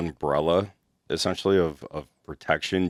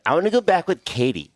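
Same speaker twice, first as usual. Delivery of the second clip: higher-pitched imitation of a drunk client; lightly mock a tipsy, insistent woman; retold drunken demand, pitched up; 10 semitones higher than usual. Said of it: "she ends up getting obliterated".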